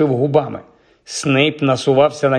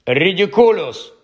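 raised-pitch exclamation; shouted spell; 5 semitones higher than usual. A narrator's reading. Determined pupil faces Snape once more, shouted spell. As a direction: call the spell out firmly, higher. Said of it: "вигукнув він".

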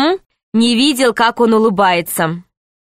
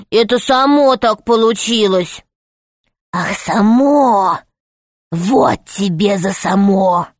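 a cruel rat boss punishing a servant; rat man. Acted. Rat scolds and beats M.

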